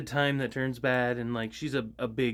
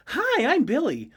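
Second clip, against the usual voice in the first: put-on high, sweet child greeting; little boy voice; 11 semitones higher, 5 dB louder than usual. Warforged Billy greeting people, high little-boy voice. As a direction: chirp it like a small boy. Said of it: "so he'd be like".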